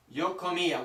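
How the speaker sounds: "comía" with the stress on the accented "í"; teacher modelling "Yo comía" with stress on the "í". Shown as a demonstration. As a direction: hit the "í" in "comía", ko-MEE-a. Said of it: "with an accent on the I".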